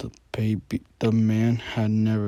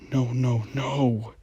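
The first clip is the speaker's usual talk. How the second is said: terrified cry; 3 semitones higher, 4 dB louder than usual. Acted. Boy facing the killer.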